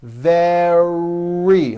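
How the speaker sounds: "Very" with lips pushed forward and a strong R; strong middle R. Shown as a demonstration. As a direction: push out the R in "Very". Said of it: "like that".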